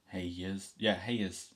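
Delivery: "Hey yous" with "yous" as "yiz"; Dublin greeting. Shown as a demonstration. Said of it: "What do you say to address a group".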